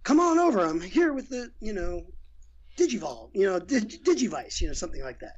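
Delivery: lightly voiced cartoon line read on cue; a hint of an actor's first take, jumping in; acting a voice line. Director demoing an actor's line after the beeps, lightly voiced. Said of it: "So you go".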